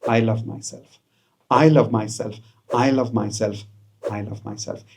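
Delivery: quiet self-love affirmation. Shown as a demonstration. Coach guiding self-love affirmation, soft and tender. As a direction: say it softly to yourself. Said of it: "again, five times".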